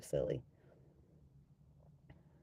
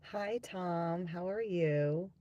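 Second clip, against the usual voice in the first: excited greeting; 4 semitones higher, much slower than usual. Real, not acted.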